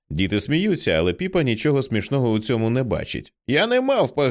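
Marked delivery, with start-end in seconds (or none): 3.5-4.3 put-on high indignant little girl; child's upset cry. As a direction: plead like a hurt little girl. Child protests being called monkey.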